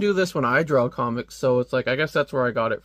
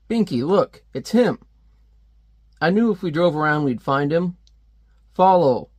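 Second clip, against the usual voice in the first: higher, louder gangster spotting him; excited thug; 3 semitones higher, 5 dB louder than usual. Retold or imitated. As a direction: hiss it out eagerly. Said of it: "it's like".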